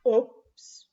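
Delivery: high, loud little frog oops; cried oops. Acted. Froggy crying oops after running wrong, high and loud. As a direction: yelp it as a startled frog. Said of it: "cried Froggy".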